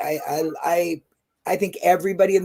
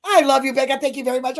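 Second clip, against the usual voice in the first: higher-pitched re-enacted gushing thanks; retold excited gratitude; 5 semitones higher than usual. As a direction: gush thanks as if reliving it. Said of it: "I was so excited".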